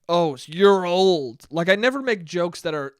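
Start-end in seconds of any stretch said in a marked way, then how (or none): 0.1-1.5 mock jab. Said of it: "it's never like".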